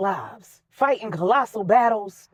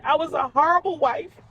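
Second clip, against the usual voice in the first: tearful; 8 semitones higher than usual. Acted. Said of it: "Regina was in tears".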